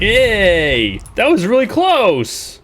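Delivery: high, loud relieved whoop; cheering after a close call; excited cheer. Real, not acted. Narrow escape in game.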